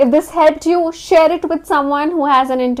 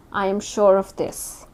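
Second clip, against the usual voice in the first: lower, softer statement falling firmly on "this"; conclusive falling tone; 4 semitones lower, 5 dB quieter than usual. Shown as a demonstration. Candidate assuring the interviewer, with a conclusive falling tone. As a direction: let THIS land low and settled. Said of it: "a falling tone at the end of statements".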